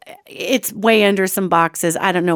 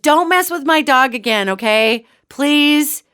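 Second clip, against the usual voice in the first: higher, mildly indignant telling-off; retold scolding yell; 5 semitones higher than usual. Owner down the hallway to the creature, mildly scolding. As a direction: scold firmly, a mock yell. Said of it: "I yell down the hallway".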